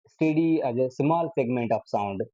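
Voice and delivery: very slow, word by word for the notes; slow dictation. Shown as a demonstration. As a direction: dictate it slowly for students to write. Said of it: "उसमें मैंने word use किया था". (धीरे-धीरे लिखवाते हुए)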